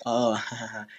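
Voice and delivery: mock-cheerful insult through a laugh; happy tone. Friend jokingly cursing someone out, laughing. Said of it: "say them in a happy tone".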